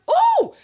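high, loud outraged whoop; worked-up "ooh". Real, not acted. Host reacting to her own rant, worked up. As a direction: let out a fired-up "ooh".

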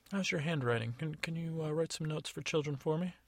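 a lightly voiced fairy testing him; Tooth Fairy. Fairy quizzing the gnome, lightly doubtful. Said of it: "And she said".

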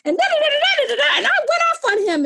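high, laughing run of da da da. Real, not acted. Laughing as she recalls her rant.

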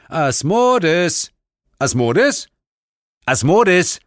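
loud, ringing repeated calls; calling out. Acted. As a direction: summon him by name. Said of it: "rief ich deshalb den Namen". (lautes Rufen)

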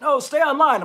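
loud, high, laughing retort; laughing imitation. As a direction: quote him through a laugh. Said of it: "he's like".

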